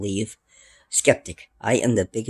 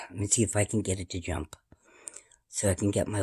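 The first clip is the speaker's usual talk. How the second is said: whisper; 2 semitones lower, 6 dB quieter, faster than usual. Real, not acted. Whispering while filming.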